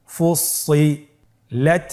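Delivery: ফুসিলাত stretched slowly, rising at the end; slow drawn-out reading. Shown as a demonstration. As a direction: draw out ফুসিলাত. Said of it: "আমার সাথে বলুন". (ধীরে টেনে ফুসিলাত)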